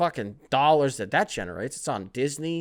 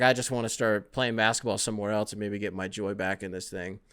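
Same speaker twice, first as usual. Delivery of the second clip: mock gloomy Jimmy Butler; 5 semitones lower, 3 dB quieter than usual. Jimmy Butler answering Ben Simmons, mock gloomy and low. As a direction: lower and softer, a mock glum sigh of a reply. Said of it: "He's like".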